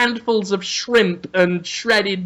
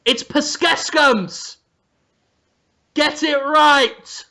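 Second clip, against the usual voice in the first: slow, high, emphatic correction; Gordon Ramsay, furious; 5 semitones higher, slower than usual. Acted. Ramsay corrects the waiter's pronunciation, furious. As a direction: correct them in drawn-out exasperation. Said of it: "And he's furious".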